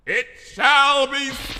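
slow, loud, otherworldly proclamation; booming voice. Acted. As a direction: boom it down from the sky. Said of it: "a booming voice echoed in the sky".

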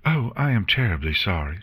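fast, flustered apology; startled nurse bumping into a pony, fast; quickly. Acted. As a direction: rush the apology out. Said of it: "said the nurse quickly".

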